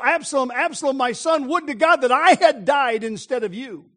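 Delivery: retold grieving lament. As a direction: imitate a father crying out for his son. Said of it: "He's weeping and he's crying".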